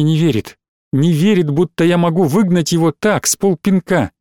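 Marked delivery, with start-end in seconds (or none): none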